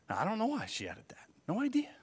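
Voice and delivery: hushed confiding aside; whispered aside. Real, not acted. Pastor confiding his puzzlement to the congregation, whispered. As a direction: lean in and whisper it.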